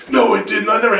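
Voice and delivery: playful argumentative comeback; mock indignant denial. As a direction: imitate dad flatly refusing to believe. Dad's denial acted in quarrel.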